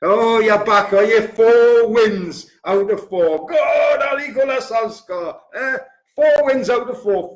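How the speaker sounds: hammed-up gloating supporter; mocking rival fans. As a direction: jeer like a smug away fan. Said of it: "Man United fans coming in again".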